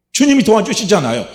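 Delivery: high, loud 주님이 도와주시잖아요, 주님이 stressed with falling tune; triumphant declaration; loud proclamation. Acted. Same line said twice.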